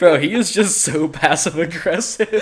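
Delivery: real amused laugh in the voice. Real, not acted. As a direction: blurt it out through laughter. Both cracking up.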